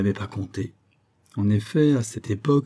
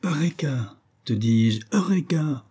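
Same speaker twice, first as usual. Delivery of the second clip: triumphant cry; 5 semitones higher, slower than usual. Acted. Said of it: "qui trépignait comme un fou".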